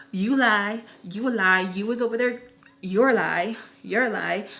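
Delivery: punchy back-and-forth accusations; mock bickering. Grown women fighting over who lies, mock quarrel. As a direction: imitate squabbling women trading accusations. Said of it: "Grown-ass women fight and be like".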